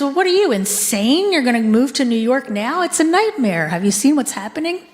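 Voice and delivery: mock incredulous. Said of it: "And she says".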